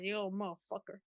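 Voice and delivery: put-on teasing southern-accent insult; playful mock southern accent; weird southern accent. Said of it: "doing this weird southern accent".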